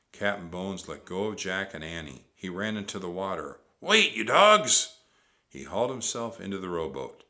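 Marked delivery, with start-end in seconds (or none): 3.8-5.0 loud, high, drawn out; slow outraged yell; furious pirate bellow. A narrator's reading. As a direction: roar after your deserting crew. Captain yelling at deserting crew.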